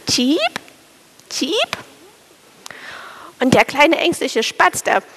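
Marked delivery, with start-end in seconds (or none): 0.1-0.4 plain chirp. Acted. 1.3-1.8 "tschiep" chirped much higher and softer, rising; shy chirp. Acted. Shy lady sparrow cheeping to the anxious sparrow, soft high chirp.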